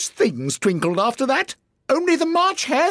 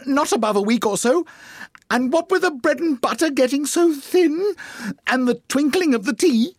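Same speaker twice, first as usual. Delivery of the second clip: very high, nervous testimony; trembling voice. Acted. Hatter testifying before the King, trembling. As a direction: quaver through a high-pitched explanation. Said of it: "began in a trembling voice".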